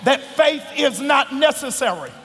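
shouted gospel preaching. Acted. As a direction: preach it at full force. Preaching at full force.

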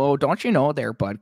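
put-on Minnesotan accent. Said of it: "I don't go".

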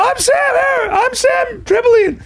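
mocking impression of a friend. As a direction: squeal it out like a wild conspiracy rant. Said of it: "That's how you sound".

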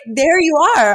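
high, joyful recognition; moved and elated; emotional self-greeting. Retold or imitated. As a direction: greet a long-lost self, pitched high. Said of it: "I'm getting emotional about it".

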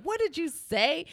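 high, loud and slow menacing demand; aunt turning on her son, slow and furious; outraged mom. Retold or imitated. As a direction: drag each word out before grabbing him. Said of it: "but then she was like".

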